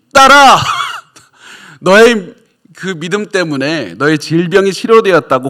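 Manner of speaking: public proclamation tone.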